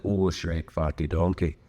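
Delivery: mock Shrek-style Scottish accent; bad Scottish accent. Strangers greeting a Scot, badly faked Scottish accent. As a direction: imitate someone badly faking a Scottish accent. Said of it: "if you're from Scotland".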